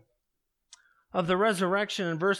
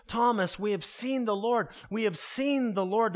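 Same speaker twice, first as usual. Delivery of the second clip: mildly urgent, raised plea to Thomas; insistent retelling; 3 semitones higher than usual. Acted. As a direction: keep telling him, pressing a little more eagerly. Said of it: "the disciples kept telling Thomas".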